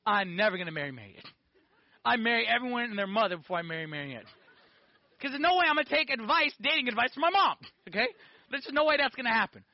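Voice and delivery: put-on defiant young boy, laughing at the idea; stubborn refusal. Boy refusing his mom's dating advice, defiant. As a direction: swear you'll never do it, half laughing. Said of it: "male with a strong head said".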